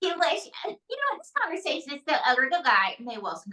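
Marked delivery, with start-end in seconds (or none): 0.0-2.5 put-on high-pitched, huffy Valley girl; Valley girl puppet. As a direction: end it like an offended Valley girl. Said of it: "my Valley girl and roommate".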